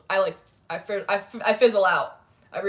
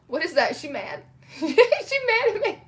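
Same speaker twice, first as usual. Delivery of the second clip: laughing, much higher, mock panic; worried; 8 semitones higher than usual. Streamer retelling fear a viewer was mad. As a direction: play up the worry for laughs.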